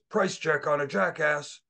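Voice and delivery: a light hint of a gruff Steve Austin growl. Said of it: "tried to do my best Steve Austin voice".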